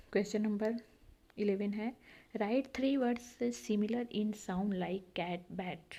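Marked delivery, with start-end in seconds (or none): 2.4-5.9 slow reading. Shown as a demonstration. Teacher reads an instruction aloud.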